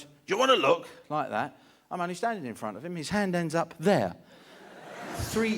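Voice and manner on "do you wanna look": louder teasing offer, leaning on wanna; father-in-law offering the spider, louder teasing; father-in-law taunt. Retold or imitated. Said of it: "and he goes".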